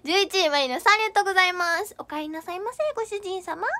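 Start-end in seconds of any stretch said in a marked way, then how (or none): 2.0-3.7 soft, sweet maid welcoming her master home; sugary maid cafe greeting. Pretend. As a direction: coo it like a maid cafe waitress. Gifter catchphrase read as greeting.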